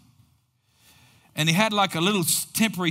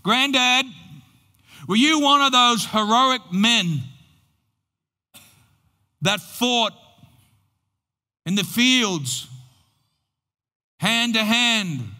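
put-on higher, slow, earnest child's question; grandchild asking; 5 semitones higher, 3 dB louder than usual. Grandchild asking grandfather about the war, slow and high. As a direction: ask it slowly like a grandchild looking up at his hero.

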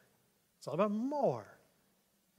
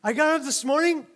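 higher and louder, hammed-up chipper newsreader; mock cheerful anchor; 7 semitones higher, 12 dB louder than usual. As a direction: overplay a giddy TV host. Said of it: "And they're like".

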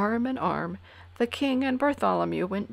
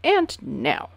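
smiling; 10 semitones higher, 6 dB louder than usual. A narrator's reading. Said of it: "smiled the king".

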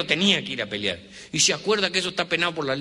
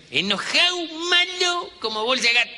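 mock fury; 3 dB louder than usual. Mock furious Italians.

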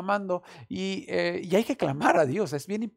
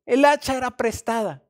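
louder, higher lament over the borrowed axe; desperate cry; 6 semitones higher, 9 dB louder than usual. Retold or imitated. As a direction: wail it out in alarm. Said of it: "gritó".

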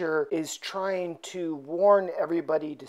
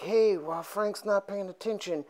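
sleazy sly murmur; 6 dB quieter than usual. Retold or imitated. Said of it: "and is like".

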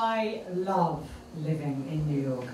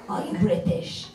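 cab driver; slower than usual. Retold or imitated. Cab driver questions her, accusing.

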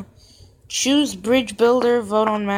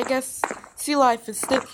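hiccups. Real, not acted. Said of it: "I also have the hiccups".

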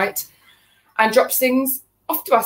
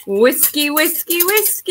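each "whiskey" rising higher, a mock chant; whiskey pun; 6 semitones higher, slower than usual. Wife teases husband whisking, chanting "whiskey" higher each time. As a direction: climb the pitch on each "whiskey", teasing the pun. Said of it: "here's Duncan having a whisk up".

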